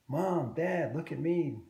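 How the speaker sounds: put-on eager kid shouting look at me; little tiger calling to mom and dad; excited exclaim. A narrator's reading. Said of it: "Daniel exclaimed".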